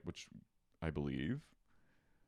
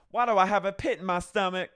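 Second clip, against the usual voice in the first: mock anxious wife; 11 semitones higher, 9 dB louder than usual. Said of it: "And she goes".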